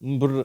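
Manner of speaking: "ம்ப்ர்" as m blended into br; MBR sound. Shown as a demonstration. Teacher naming the cluster sound, "ம்ப்ர்" as mbr. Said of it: "அப்படிங்கிற மாதிரி".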